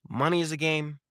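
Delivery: normal talking voice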